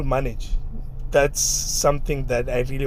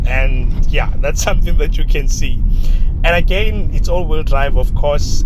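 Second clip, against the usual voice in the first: raised voice; 2 semitones higher, 5 dB louder than usual. Real, not acted. Talking over engine while driving.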